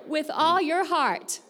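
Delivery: drawn-out line for echoing; call for repetition. Shown as a demonstration. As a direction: lead the group phrase by phrase. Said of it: "repeat after me".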